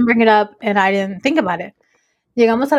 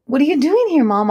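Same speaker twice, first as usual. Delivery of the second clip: higher-pitched, mildly excited retold question; excited child; 5 semitones higher than usual. Son greeting mom at school, mildly excited. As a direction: lightly imitate a kid's excited surprise. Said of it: "All excited".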